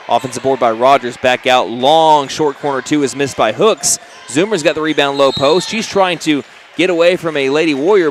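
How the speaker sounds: brisk courtside game call; play-by-play. Real, not acted. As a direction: call the action as it happens. Live basketball play-by-play.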